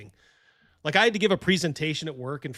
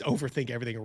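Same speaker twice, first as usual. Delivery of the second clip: usual speaking voice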